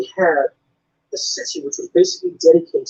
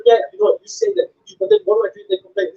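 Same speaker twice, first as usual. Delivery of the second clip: much higher, slurred imitation of a deaf fan's speech; imitated deaf fan; 11 semitones higher, faster than usual. Fan praising the comedian's stuff, high slurred imitation. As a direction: gush like an eager fan who talks fast. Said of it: "They're like".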